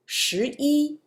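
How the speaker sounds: 一 in 十一 held high and level; first-tone 一. Shown as a demonstration. Teacher gives counting example, 一 in first tone. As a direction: end 十一 on a high, steady 一. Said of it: "the pronunciation is first tone".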